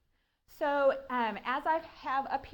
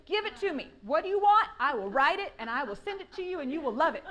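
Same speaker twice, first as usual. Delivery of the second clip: eager; 3 semitones higher, 7 dB louder, faster than usual. Retold or imitated. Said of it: "and I was ready".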